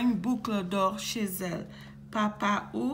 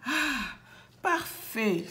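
contented sigh; 3 semitones higher, slower than usual. Acted. Boucle d'Or tries the little bed, contented sigh. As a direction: sigh it out, gently satisfied. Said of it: "soupire-t-elle".

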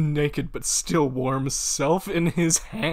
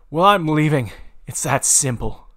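mock yell; 3 semitones higher, 7 dB louder than usual. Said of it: "John screamed".

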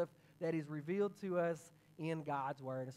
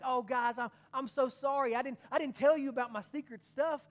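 playing along excitedly; 4 semitones higher, 5 dB louder than usual. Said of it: "he's like".

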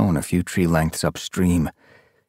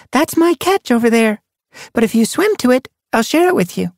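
put-on high, louder young she-cat; challenge; 4 dB louder than usual. A narrator's reading. Sun Paw bargains with her friend, high voice.

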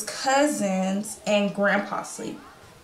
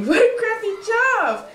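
laughing; 12 semitones higher, 5 dB louder than usual. Acted. Laughing about emptying buckets.

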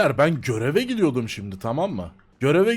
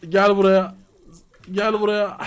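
calling out; 2 semitones higher, 4 dB louder than usual. Real, not acted. Calling a target over.

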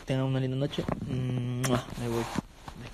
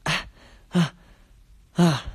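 getting a leg cramp; 4 semitones higher, 7 dB louder than usual. Real, not acted.

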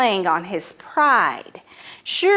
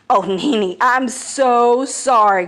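slow, pleading apology; groveling; 2 semitones higher, 5 dB louder than usual. Acted. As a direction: grovel to the big snake. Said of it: "groveled Anansi".

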